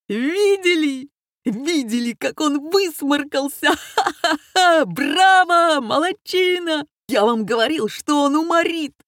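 high, loud, laughing bravos; ecstatic cheering. A narrator's reading. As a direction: roar with delight at the joke.

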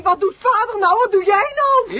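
panicked. Acted. Panic at driving off road.

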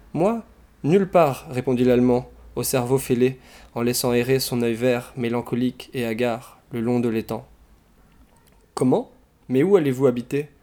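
expressive, lively read-aloud with animated dialogue; story narration. A narrator's reading. Reader sharing a comic Russian novel, expressive storytelling. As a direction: read the novel out with theatrical phrasing.

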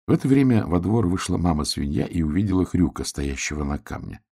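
plain reading voice

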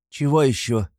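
раздражённый высокий окрик; резко оборви вопросом; крикнула. A narrator's reading. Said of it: "крикнула Катерина Ивановна". (Катерина Ивановна раздражённо кричит на мужа)

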